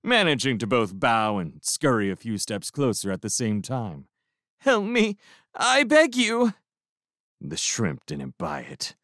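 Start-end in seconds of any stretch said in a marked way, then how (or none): 4.6-6.5 hammed-up groveling; plaintive begging. A narrator's reading. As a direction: prisoner begs the crew to help.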